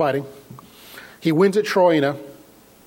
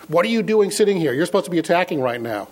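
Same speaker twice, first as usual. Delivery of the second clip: quoting a scolding general, slightly raised pitch; George Patton; 2 semitones higher than usual. Retold or imitated. General scolding an officer for sitting still, lightly mocked screaming. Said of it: "starts screaming at him in his little squeaky voice".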